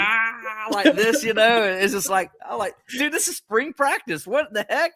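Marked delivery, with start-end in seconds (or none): 0.0-0.7 high drawn-out pumped-up yell, imitated; T J Parker. Reporter mimics a fired-up player at practice, high mock yell. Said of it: "he leans back and he's like". 2.9-4.9 high-pitched, incredulous reaction, retold; amazed disbelief. Reporter retells his reaction to a fired-up player, amazed disbelief.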